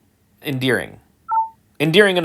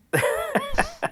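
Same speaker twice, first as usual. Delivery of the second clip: helpless high-pitched laugh; soft, squeaky burst of amusement; real laugh; 8 dB quieter than usual. Real, not acted. Amused at the thwarted eclipse viewing, laughing. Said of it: "I chose to laugh".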